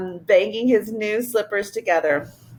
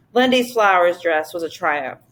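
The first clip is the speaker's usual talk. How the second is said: plain reading voice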